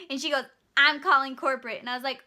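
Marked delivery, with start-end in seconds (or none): 0.8-1.8 louder threat; threatening customer. Retold or imitated. Customer threatens cashier, loud. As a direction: throw down the threat.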